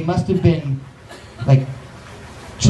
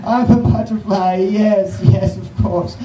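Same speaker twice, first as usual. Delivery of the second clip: higher, dainty voice of a self-satisfied butterfly; prissy butterfly voice; 3 semitones higher than usual. Pretend. Comic doing the butterfly people imagine, higher and dainty. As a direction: play a pleased, pompous butterfly. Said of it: "Just like".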